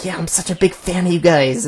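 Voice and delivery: a hint of gushing nerd; nerdy fan. Commentator imitates a stalking fan meeting his idols, nerdy fan. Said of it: "this nerdy fan of theirs".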